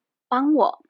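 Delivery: 帮我 said short and blunt, as a command; 帮我 as a plain blunt demand; curt order. Shown as a demonstration. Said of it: "it may sound like an order".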